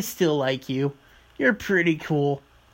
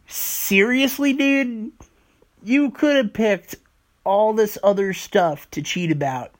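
exasperated; 3 semitones higher than usual. Retold or imitated. Exasperated retort to cheaters.

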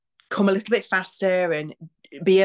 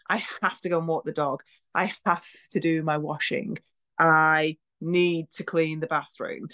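reluctant chore. Shown as a demonstration. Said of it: "all of those things have a negative connotation".

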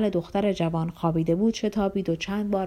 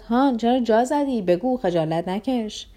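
mild taunting shout; 3 semitones higher, slower than usual. Acted. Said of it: "جوان روی کاناپه افتاده داد زد".

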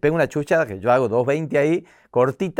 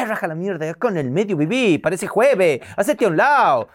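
loud, high, brusque bark; mother at home barking to get out of the way; rude mother; 6 semitones higher, 3 dB louder than usual. Retold or imitated. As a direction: shove past barking orders. Mother shoving past rudely.

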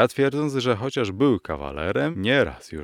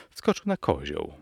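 plain reading voice

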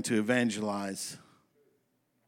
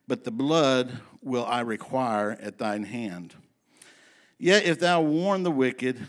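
scripture reading. Acted. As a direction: read the scripture like a preacher, leaning on each warning. Reads Ezekiel passage aloud.

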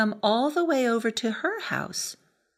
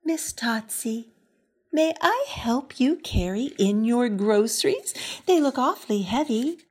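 sweetest smile; 2 semitones higher than usual. Acted. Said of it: "smiled her sweetest smile".

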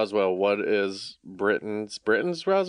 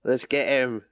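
put-on British accent. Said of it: "we just did every dialect".

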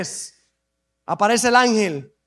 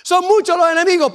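mock-anxious plea pitched higher; a complaining believer, pitched up; worried believer; 6 semitones higher than usual. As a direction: play the fretful church member, raised voice. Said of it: "Los enemigos son muchos, pastor".

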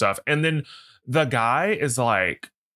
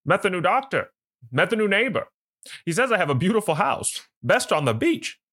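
lightly put-on gumshoe, pitched higher; a touch of old-time detective, higher than usual; 1920s gumshoe; 8 semitones higher than usual. Host rereading the husband's lines about the doctor, as a 1920s gumshoe. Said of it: "like nineteen twenties gumshoe as well".

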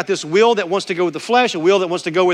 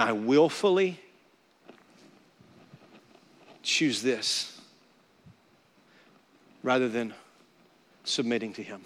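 hushed confession; 5 semitones lower, 7 dB quieter than usual. Real, not acted. Pastor confessing his own failures to the church, hushed and halting. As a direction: admit it quietly, pausing between words.

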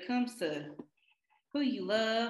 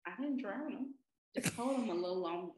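low, soft and fast, deadpan; quiet joke; 6 semitones lower, 9 dB quieter than usual. Acted. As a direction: slip the dark joke in under the breath. Joking about drowning someone.

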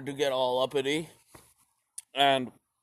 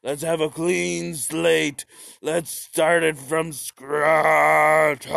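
mock Stalin; 2 semitones higher, 5 dB louder, slower than usual. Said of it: "and he's like".

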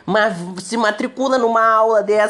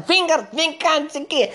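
mock shouting mother; 9 semitones higher than usual.

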